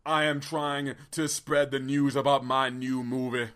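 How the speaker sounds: slow, sustained mock oratory; badly faked orator, each word drawn out; Martin Luther King. Guest telling host why he came, slow orator impression. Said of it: "Your impersonation is so terrible".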